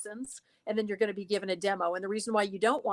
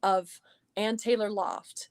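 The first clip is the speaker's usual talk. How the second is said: natural money voice; 2 semitones lower than usual. Shown as a demonstration. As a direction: read it like a polished hold message. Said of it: "So that's my money voice".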